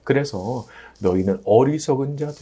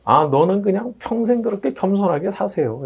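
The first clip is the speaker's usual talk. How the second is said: mildly mocking, higher-pitched; imitated taunt, pitched up; mocking jeer; 8 semitones higher than usual. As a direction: lightly jeer as a worldly scoffer would. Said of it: "이렇게 조롱을 할 수도 있고".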